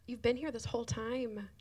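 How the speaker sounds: choked up, half whispered, words breaking into tears; tearful thanks. Real, not acted. Thanking the volunteers who serve on Sundays, tearful and half whispered. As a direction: thank them while fighting back real tears. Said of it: "sorry that I'm crying".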